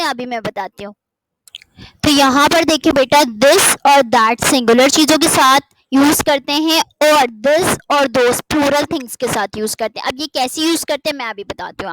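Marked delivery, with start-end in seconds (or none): 1.8-10.1 1 emphatic rule. Real, not acted. Teacher stressing the key rule.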